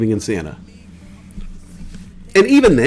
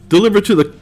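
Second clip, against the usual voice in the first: hammed-up Scandinavian accent, higher and louder; 10 semitones higher, 4 dB louder than usual. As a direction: joke Scandinavian accent barking delivery tips. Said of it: "That was my Scandinavian accent".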